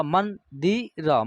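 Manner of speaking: मंदिर said very slowly; slow demo word. Shown as a demonstration. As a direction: drag out मंदिर with clear n. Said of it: "यहाँ न का उच्चारण होगा".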